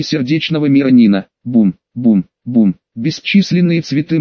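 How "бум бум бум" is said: deep, distorted booming sound effect; low rumbling boom, far and processed; deep distorted monster roar. A narrator's reading. Звукоподражание удара в бою. (низкий искажённый гул)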